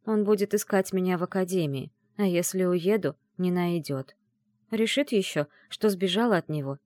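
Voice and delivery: plain reading voice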